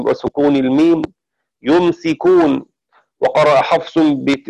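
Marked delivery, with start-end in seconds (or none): 1.6-2.7 يمسكون said slowly with a light sin and a still mim; Shu'ba's reading. Shown as a demonstration. Teacher demonstrating Shu'ba's reading for students, slow and careful. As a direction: read يمسكون slowly, sin without doubling, mim with sukun. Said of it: "بتخفيف السين وسكون الميم".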